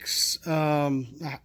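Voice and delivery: words broken by coughing; fighting off a cough; coughing fit. Real, not acted. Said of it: "sorry, I just had a coughing fit".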